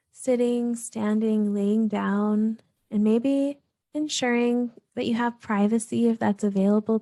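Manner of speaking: calm, even meditation guidance with long pauses; guided meditation. Real, not acted. Host guiding listeners to settle and breathe, calm meditation voice. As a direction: gently lead listeners through breath and body, unhurried between phrases.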